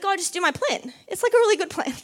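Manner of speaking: high, whiny mock plea; pleading with God. To God, a high whiny plea for her plan. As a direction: beg like a child who wants her own way. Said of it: "I'm like".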